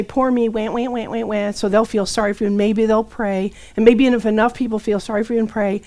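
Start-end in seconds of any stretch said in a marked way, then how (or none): 0.0-1.5 softer fake crying wah; mock whining. Calling friends for sympathy, mock crying wah. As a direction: whimper like a self-pitying caller. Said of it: "call people and say".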